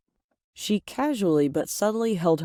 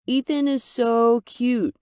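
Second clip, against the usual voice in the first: Mom gushing; 6 semitones higher, 4 dB louder, slower than usual. Acted. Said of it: "Mom said after he left".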